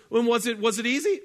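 loud high challenging question. Retold or imitated. Jillian loudly quizzing the contestant. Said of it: "And she goes".

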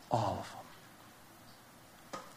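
slow, hushed whisper. Acted. Preacher whispers the answer to his own question. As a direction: breathe it out slowly and softly.

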